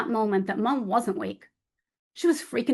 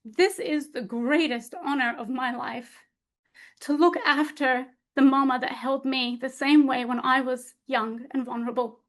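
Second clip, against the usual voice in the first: holding back tears. Retold or imitated. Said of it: "I hold back tears".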